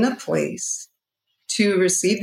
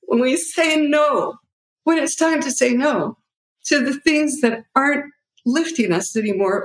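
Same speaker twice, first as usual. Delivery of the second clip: getting emotional; 6 semitones higher than usual. Real, not acted. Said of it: "sorry, I'm getting all emotional".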